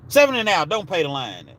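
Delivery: a lightly voiced table call that falls off at the end; calling the roll like a casino dealer announcing a loss; craps dealer call. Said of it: "That's how the dealers talk at the table".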